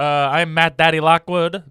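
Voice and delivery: slow, loud host intro; announcer voice. Acted. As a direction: introduce yourself like a showman.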